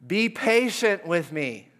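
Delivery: a touch of pleading; mild begging. Acted. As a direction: fellow servant on his knees pleading with the servant. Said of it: "fell to his knees and begged him".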